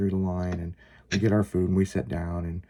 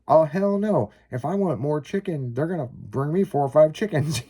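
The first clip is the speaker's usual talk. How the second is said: wife's laughing quote; 8 semitones higher than usual. Retold or imitated. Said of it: "she goes".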